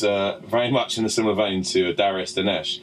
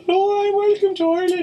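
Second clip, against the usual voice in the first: mock welcome; 4 dB louder than usual. Mock announcer welcome to Ireland.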